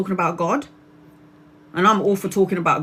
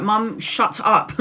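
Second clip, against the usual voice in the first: playful scolding; 3 semitones higher, much slower than usual. Retold or imitated. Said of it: "And I'm like".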